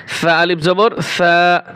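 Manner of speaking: সা আলিফ জবর সা spelled slowly, each vowel held one alif long; a Quran teacher drills long vowels for beginners; slow drawn spelling. Shown as a demonstration. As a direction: stretch every vowel, teaching pace. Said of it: "এক আলিফ করে প্রতিটা হরফে টান হবে".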